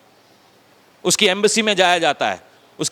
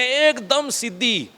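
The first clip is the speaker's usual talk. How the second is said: slow emphatic; 4 semitones higher, 4 dB quieter, much slower than usual. Shown as a demonstration.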